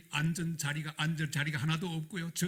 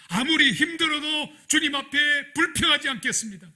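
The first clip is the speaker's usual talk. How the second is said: repentant prayer; 5 dB louder than usual. Retold or imitated. The pastor repenting to God on the bridge, building from humble plea to loud cry. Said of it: "회개하기 시작했습니다".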